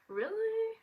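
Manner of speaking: 高声惊讶反问; disbelieving really. Retold or imitated. People doubt she is French.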